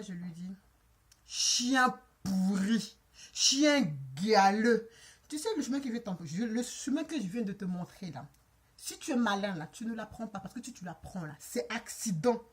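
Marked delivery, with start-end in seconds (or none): 1.3-4.9 put-on slow, low insult in an African accent. Woman insulting the driver at his car window, African accent. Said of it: "Avec mon accent africain". 5.3-12.4 put-on low warning in an African accent. Woman warning the driver off after giving directions, African accent. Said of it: "Avec mon accent africain".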